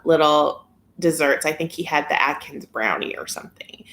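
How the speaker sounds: ordinary talk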